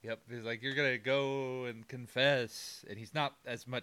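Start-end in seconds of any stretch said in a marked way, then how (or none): 0.6-2.8 slow eerie ghost voice; a hint of a spooky ghost; ghostly voice. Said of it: "I'm making him sound like a fucking ghost".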